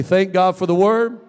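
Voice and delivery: loud call to say it; congregation call. Real, not acted. Pastor leading the church in a loud call.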